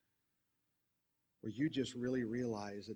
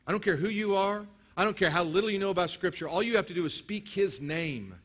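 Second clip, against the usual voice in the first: higher and louder preaching; full-force preaching; 8 semitones higher, 8 dB louder than usual. Real, not acted. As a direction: build the crowd up, high and loud.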